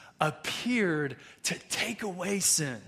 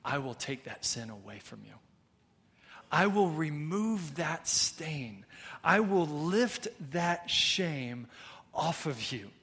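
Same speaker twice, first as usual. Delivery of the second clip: softer and slow, a gentle promise; voicing Jesus; 3 semitones lower, 5 dB quieter than usual. Pastor voicing Jesus to his church, soft and slow. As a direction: lower the voice and speak tenderly as Jesus. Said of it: "Jesus' response is to say".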